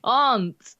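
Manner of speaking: "Can't" with a long broad a, crisp final t; careful "Can't". Shown as a demonstration. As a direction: say "Can't" clearly so it isn't misheard. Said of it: "Did you say cunt?".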